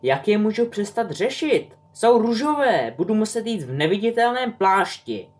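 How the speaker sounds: high wailing complaint; a teen in full dismay; whiny panic. A narrator's reading. Teenage son wails to his mother about his pink hair, high and whiny.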